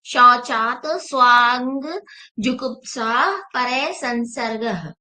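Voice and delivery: slow, measured Sanskrit recitation of the sutra. Shown as a demonstration. Yoga teacher to students, reciting the sutra slowly. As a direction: intone each word slowly like scripture. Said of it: "दूसरे अध्याय का चालीसवां सूत्र".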